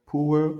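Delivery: power pitched high, unvoiced burst on P; voiceless P. Shown as a demonstration. Teacher repeating the contrast, high power with voiceless P. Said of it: "Les voiceless".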